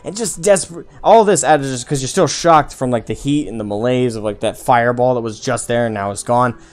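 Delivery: animated, emphatic blow-by-blow; game master's combat narration. Acted. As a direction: build to a loud crack of the hit, then settle into detail.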